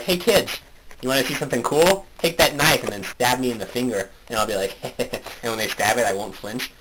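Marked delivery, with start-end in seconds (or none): 0.0-4.1 higher-pitched mock-friendly invitation; playful calling to kids. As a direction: act out luring the grandkids over. Plays grandfather calling to grandchildren.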